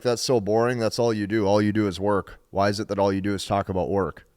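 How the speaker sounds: low-key mock boredom; imitated disinterest. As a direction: act out an uninterested girlfriend's put-down, lightly. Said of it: "act like she's disinterested".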